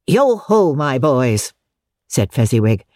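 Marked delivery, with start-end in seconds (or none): 0.1-1.5 jovial hail. Acted. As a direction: hail the apprentices like a jolly boss. Fezziwig hailing his apprentices.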